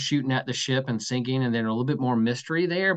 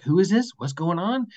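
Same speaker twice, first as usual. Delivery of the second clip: amazed; 6 semitones higher than usual. Acted. Acting amazed onlookers.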